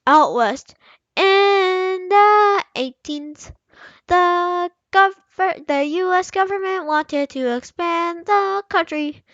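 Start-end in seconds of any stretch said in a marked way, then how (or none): 1.1-5.6 higher, slow silly read; a hint of the silly voice; still clowning. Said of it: "I need you to be serious".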